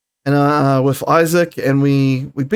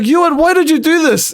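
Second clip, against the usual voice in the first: retold high call-out; 10 semitones higher, 3 dB louder than usual. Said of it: "I was like".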